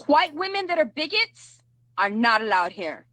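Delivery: ordinary talk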